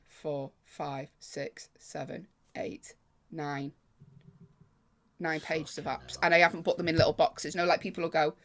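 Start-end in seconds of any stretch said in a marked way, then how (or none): 0.1-3.7 fading count. Real, not acted. Counting app pages in dismay.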